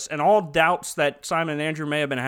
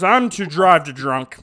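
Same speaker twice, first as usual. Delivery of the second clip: slow, louder tipsy mock confession; Abner, drunk; 5 dB louder, slower than usual. Drunk wedding guest to his wife, slow mock-tipsy voice. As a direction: draw out the muddled words. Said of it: "he goes".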